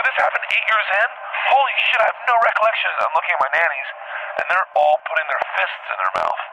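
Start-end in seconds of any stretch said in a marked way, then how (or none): 0.0-2.9 high, incredulous mock outburst; retold astonishment. Dreamer with no recollection of it, retold astonishment. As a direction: replay the shock, pitched way up.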